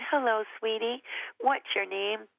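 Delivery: put-on mild gentle coaxing of a shy child. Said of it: "so I went really gentle".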